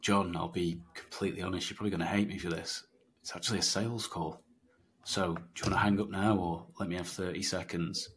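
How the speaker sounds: calm and honest. Shown as a demonstration. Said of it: "you should be going".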